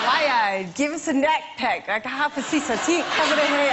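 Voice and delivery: garbled stab at Geordie; attempted Geordie accent. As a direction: copy a Geordie phrase without understanding it. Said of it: "It was Geordie".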